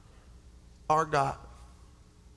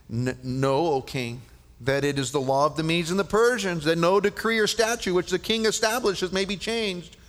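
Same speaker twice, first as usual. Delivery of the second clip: insistent decree; 3 semitones higher, 5 dB louder than usual. Acted. Courtiers press the king.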